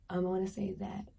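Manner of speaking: soft whispered aside. Real, not acted. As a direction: lean in and whisper it.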